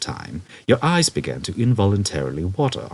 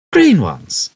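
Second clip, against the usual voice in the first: wicked grin; 9 semitones higher, 9 dB louder than usual. A narrator's reading. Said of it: "he would reply with a wicked grin".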